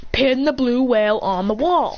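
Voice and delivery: slow, spelled-out repetition; emphatic repeat. Acted. Christian repeating himself to puzzled Naruto, emphatic repeat. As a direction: say "Pin the blue whale" slowly, word by word. Repeats after "Excuse me, what?.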